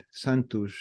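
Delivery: "Santos" softly, final s as sh; quiet "Santos" ending in sh; Portuguese "Santos" with a soft sh ending. Shown as a demonstration. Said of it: "it's a kind of a sh sound".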